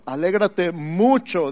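slow, leaning on "mucho"; stretched mucho. Shown as a demonstration. Pastor leading the church, stretching "mucho". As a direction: draw out "mucho" for the crowd to echo. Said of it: "di conmigo".

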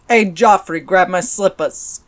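gruff mob-boss order; a hint of a mob-boss wife. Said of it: "she probably sounds more like this".

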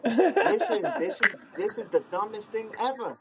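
high laughing listen, then an exasperated rant; laughing complaint. Retold or imitated.

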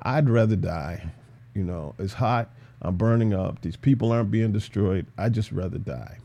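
low, soft, mopey sulk; dramatic Jonah. Acted. Preacher mocking Jonah sulking in the heat, low and soft. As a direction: melodramatic moaning about the heat. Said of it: "Jonah again being dramatic".

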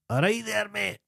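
high-pitched Scottish chancer hailing someone; Scottish beggar. Retold or imitated. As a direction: put on a high, matey Scottish voice. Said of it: "he's a Scottish guy".

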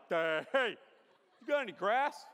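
dopey sheep. Retold or imitated. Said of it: "'Cause sheep are like".

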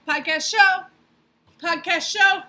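high, loud cheer of the show name; shouted catchphrase. Acted. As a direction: yell it like a hype chant.

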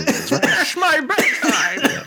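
mock sleepy. Joking about being old.

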